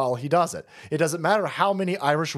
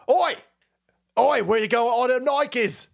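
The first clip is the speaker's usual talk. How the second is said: high, hammed-up Irish street shout; bad Irish accent; 6 semitones higher than usual. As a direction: call out in a badly faked Irish accent. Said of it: "I can't do an Irish accent".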